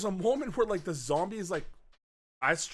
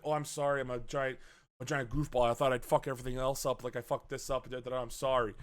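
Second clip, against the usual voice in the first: low, softer bumbling apology; mock sheepish apology; 5 semitones lower, 3 dB quieter than usual. The speaker apologizes to Maria for messing up, mock sheepish. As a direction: imitate a big guy apologizing lamely.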